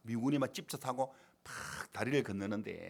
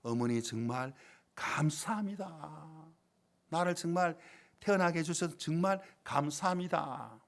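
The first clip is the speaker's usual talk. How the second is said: grateful; 3 semitones higher, slower than usual. Retold or imitated. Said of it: "너무 감사의 눈물을 흘렸다".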